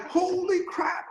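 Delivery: high-pitched, exasperated exclamation; retold dismay. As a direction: act out being floored by bad news. Retold dismay at late news.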